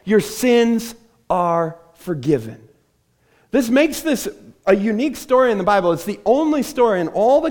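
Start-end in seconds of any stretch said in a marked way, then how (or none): 0.0-2.7 drawn out slowly, weighing each word; slow and solemn pronouncement; slow, deliberate reveal. Shown as a demonstration. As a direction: let it land slowly, like a shock. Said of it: "The last thing they were expecting".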